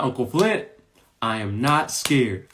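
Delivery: retold insistence, slow and spaced out on "I am not scared"; insistent niece. Niece to uncle on the roller coaster, insistent. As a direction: lightly imitate a child insisting, word by word.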